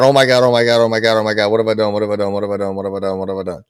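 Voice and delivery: mild mock panic fading to a murmur. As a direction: retell her frantic muttering as it dies away. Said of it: "She's freaking out".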